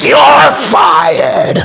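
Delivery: mock boss bellowing a firing; hammed-up shouted firing; Vince McMahon. Boss impression firing a wrestler, mock shout. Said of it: "Every time I do Vince McMahon's voice".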